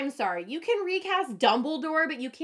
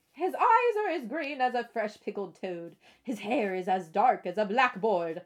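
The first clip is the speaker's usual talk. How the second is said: preschool reading voice; 2 semitones lower than usual. Acted. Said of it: "so I have lots of voices".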